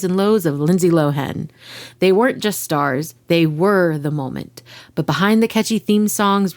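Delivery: dramatic podcast intro narration; storytelling voice. Acted. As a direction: tell it like a teaser trailer. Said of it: "my storytelling voice".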